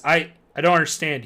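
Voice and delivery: stammered. Acted. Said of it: "he stammered".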